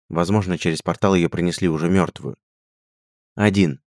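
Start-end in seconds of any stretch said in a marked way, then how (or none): 3.3-3.8 hoarse, rough answer. Acted. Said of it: "хрипло отозвался Рихард".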